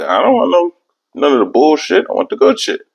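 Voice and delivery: high, pushy excitement; hammed-up craving; eager insistence. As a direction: insist on the good stuff, voice way up. Insisting on the good stuff.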